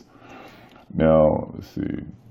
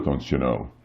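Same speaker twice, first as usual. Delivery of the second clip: playful mock Minnesotan accent, a bit softer; lightly put-on Minnesotan accent for the Donna fan; bad Minnesotan accent; 3 semitones lower, 6 dB quieter than usual. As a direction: tag it on in a joking Minnesotan accent. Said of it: "my bad Minnesotan accent".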